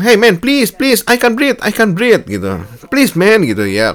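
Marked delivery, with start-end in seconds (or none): 0.0-2.3 high, strained pleading voice; imitated desperate plea. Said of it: "dia bilang". 2.9-3.5 high, strained pleading voice; imitated desperate plea. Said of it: "dia bilang".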